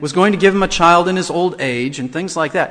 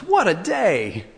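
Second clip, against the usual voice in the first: happy exclaim; slower than usual. Retold or imitated. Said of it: "she exclaims".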